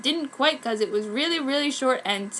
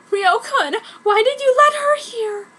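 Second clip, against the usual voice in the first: sadly; 11 semitones higher, 6 dB louder than usual. A narrator's reading. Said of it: "I said sadly".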